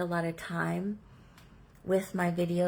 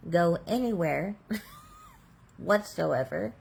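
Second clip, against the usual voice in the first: laughing shout. Real, not acted.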